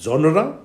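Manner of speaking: "genre" said as ZHON-ra, as a model; careful model pronunciation. Shown as a demonstration. Lecturer showing students how to pronounce the word correctly, "genre" as ZHON-ra. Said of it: "to pronounce the word correctly".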